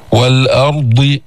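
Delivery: "والأرض" slow with a full heavy dad. Shown as a demonstration. Teacher shows the emphatic dad in "والأرض", slow. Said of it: "الاستعلاء في الضاد".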